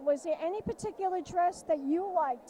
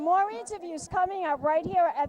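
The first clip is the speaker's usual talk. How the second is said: socialite host voice; 3 dB louder than usual. Acted. Host signs off again in character.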